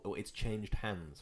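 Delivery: low, slow, soft imitation; mock-solemn murmur; hushed tones. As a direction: say it like a hushed, grave secret. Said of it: "how it's said in hushed tones".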